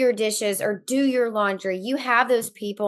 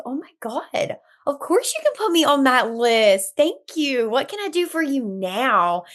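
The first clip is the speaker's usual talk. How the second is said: higher-pitched, gushing yes; honored friend; 3 semitones higher than usual. Acted. Friend agreeing to be on the postpartum list, honored. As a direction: act touched to be asked. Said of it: "People are gonna feel so honored".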